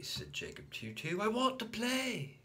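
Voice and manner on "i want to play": put-on higher childish demand; high repeated I want; insistent little boy repeat. A narrator's reading. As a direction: insist again stubbornly.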